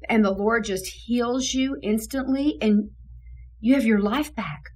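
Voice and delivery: tearful joy. Retold or imitated. Director rejoicing with the healed young man, mild tearful joy. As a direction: relive overwhelming happy tears, lightly. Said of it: "And so then I'm sobbing. I'm crying".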